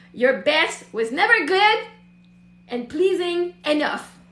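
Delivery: slow, deliberate read-aloud with pauses; measured, emphatic reading; pointed reading. Real, not acted. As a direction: read it slowly, lifting GOOD into a rise.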